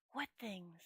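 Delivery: soft, unvoiced whisper from the back of the mind; a little voice hissing inside his head; tiny dry voice. A narrator's reading. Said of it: "A tiny, dry voice in the back of his brain said".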